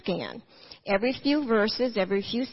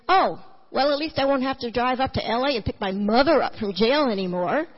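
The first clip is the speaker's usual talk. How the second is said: louder, laughing tease about jail; joking son; 2 semitones higher, 4 dB louder than usual. Retold or imitated.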